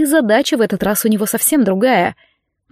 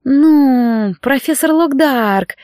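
purring; 4 semitones higher, much slower than usual. Acted. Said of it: "промурлыкала она".

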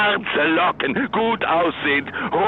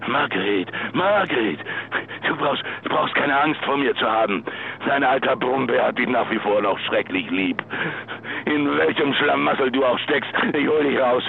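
tender reassurance; 5 semitones lower than usual. Acted. Husband to missing wife on the answering machine, tender and coaxing. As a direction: soothe her like an old bear.

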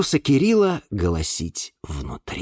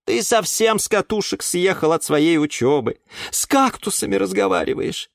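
higher, lightly voiced scolding caretaker; scolding aunt Glasha; 5 semitones higher than usual. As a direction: nag him like a fed-up caretaker. (тётя Глаша ворчит на Юру, слегка сыгранно)

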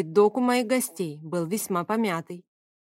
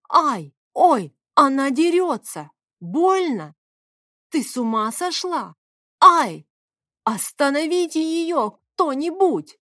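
high, loud yelps and pleas; yelling in pain; 6 semitones higher, 5 dB louder, slower than usual. Acted. Favius, beaten with the rolling pin, yells for someone to stop her. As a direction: cry out under the blows, begging for help. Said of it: "Это точно заорал Фавий".

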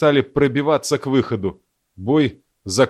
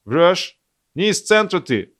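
put-on hints of an American accent; a light American-accented interrogation; 6 semitones higher than usual. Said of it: "американским акцентом". (лёгкий американский акцент)

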